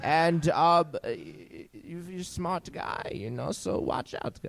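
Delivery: put-on accent sliding from British to German; wobbly mock British turning German; shifting British-German accent. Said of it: "He sounds British and then German".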